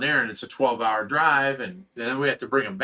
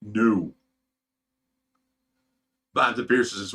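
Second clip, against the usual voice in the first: ordinary talk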